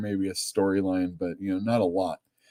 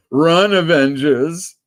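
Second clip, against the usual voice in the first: slow, loud, higher warning cry; mock dramatic warning; 5 semitones higher, 7 dB louder, much slower than usual. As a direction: drag out a doom-laden call to flee. Dramatic warning about Scarlet Witch.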